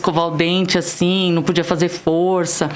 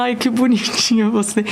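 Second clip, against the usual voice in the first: higher-pitched affectionate coo; lightly imitated cooing nurse; 5 semitones higher than usual. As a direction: imitate a nurse finding her patient sweet. Nurse cooing, acted out in retelling.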